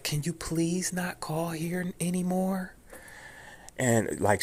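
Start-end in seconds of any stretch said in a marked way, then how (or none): 0.0-2.7 high-pitched mimicked plea; retold scared plea. Auditor asking caller to stop calling, scared plea. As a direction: beg off in a high, polite voice. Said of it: "she was scared".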